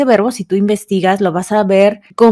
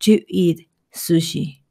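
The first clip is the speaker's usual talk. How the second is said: slow model sentence; slower than usual. Shown as a demonstration. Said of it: "manera más sencilla".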